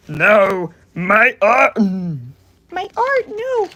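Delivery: high, loud cartoon whine; mock whine. Protesting the AU art, high cartoon whine. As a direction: whine it like a silly character.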